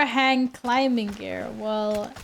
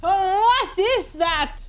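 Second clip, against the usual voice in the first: startled question; 8 semitones higher, 6 dB louder, much slower than usual. Real, not acted. Something appears in game.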